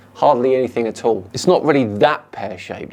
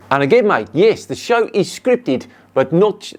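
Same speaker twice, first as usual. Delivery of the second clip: higher-pitched bad Australian accent, sliding into South African; mock Australian accent; 6 semitones higher than usual. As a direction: put on a poor Australian accent. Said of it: "that's more South African".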